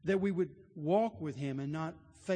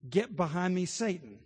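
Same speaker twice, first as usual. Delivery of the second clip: louder, firm Get behind me, Satan; stern rebuke; 5 dB louder than usual. Acted. Jesus rebuking Peter, louder and stern. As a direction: command it sharply. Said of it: "Famous words".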